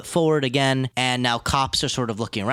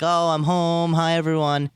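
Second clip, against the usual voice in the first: homecoming greeting; 5 semitones higher than usual. Retold or imitated. Acted greeting on arriving home.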